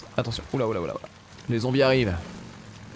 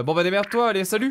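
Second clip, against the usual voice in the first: mock dismissive brush-off; 7 semitones higher than usual. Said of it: "on vient littéralement de lui dire".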